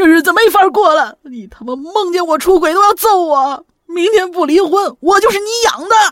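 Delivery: high, loud, aggrieved sobbing crying roar. Retelling what an overheard man shouted, imitating an aggrieved crying roar. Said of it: "委屈、哭泣、咆哮的声音".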